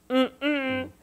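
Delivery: jokey, hammed-up bad Scottish accent; mock Scotland's brush-off in a bad Scottish accent. Scotland turning her down, in a bad Scottish accent. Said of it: "That was my bad Scottish accent".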